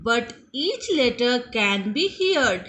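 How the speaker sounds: slow, word-by-word English sentence; slow dictation. Shown as a demonstration. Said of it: "teacher dictates".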